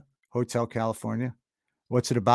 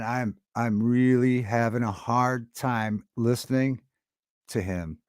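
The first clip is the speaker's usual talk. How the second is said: choked up; slower than usual. Real, not acted. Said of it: "don't wanna get emotional".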